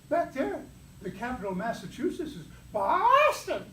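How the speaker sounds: mock Boston accent. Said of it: "They talk funny back there".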